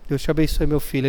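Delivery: low, soft motherly blessing; mother's soft blessing. Retold or imitated. Mother blessing her son at the door, softly. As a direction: bless him gently as he heads out.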